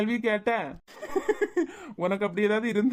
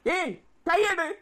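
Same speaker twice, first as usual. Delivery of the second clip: a sharp, slow and high rebuke; a slow warning to take her hand off; husband orders the cousin away, annoyed; angry; 7 semitones higher, much slower than usual. Acted. Husband snaps at cousin touching him.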